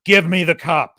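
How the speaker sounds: the speaker finally masters the voice, forceful; forceful command. Retold or imitated. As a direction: order it with force. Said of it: "this forceful voice overlaid".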